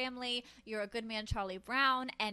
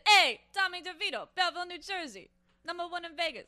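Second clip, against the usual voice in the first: Tommy DeVito talk; 4 semitones higher than usual. Retold or imitated. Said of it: "you're talking like Tommy DeVito does".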